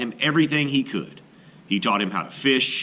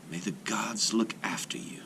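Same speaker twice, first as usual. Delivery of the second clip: breathy hushed whisper; 9 dB quieter than usual. A narrator's reading. Mother whispers farewell to her baby, whispering. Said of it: "she whispered".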